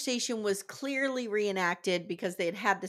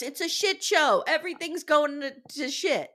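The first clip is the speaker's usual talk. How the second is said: exasperated rant; 7 semitones higher, 3 dB louder than usual. Real, not acted. Co-host ranting about the state of the world, exasperated.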